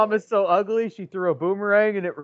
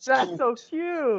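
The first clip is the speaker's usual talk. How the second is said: 1 mock cooing; 8 semitones higher, much slower than usual. Mock reaction of a partner.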